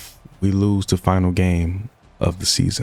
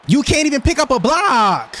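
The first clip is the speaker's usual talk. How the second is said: high, louder cry of frustration; frustrated yell; 3 dB louder than usual. Real, not acted. Gamer yells at his blocker for missing the block, high and frustrated. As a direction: let the anger break out high.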